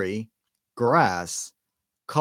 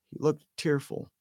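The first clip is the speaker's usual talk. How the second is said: usual speaking voice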